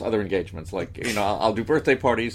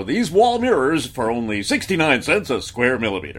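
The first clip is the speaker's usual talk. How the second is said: announcer voice; 4 semitones higher, 4 dB louder than usual. Retold or imitated. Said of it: "both of these bits were announcer bits".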